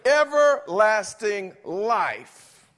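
"Everlasting" stretched long and loud, falling at the end; booming answer. Real, not acted. Preacher answering his own question for the church, booming slowly. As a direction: call out "Everlasting life" slowly at full volume. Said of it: "but have what?".

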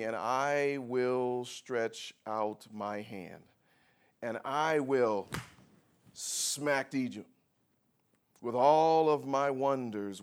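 slow, deliberate reading of God's words; scripture reading. Acted. Pastor reading God's promise to the congregation, slow and solemn. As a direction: read it weighty and slow.

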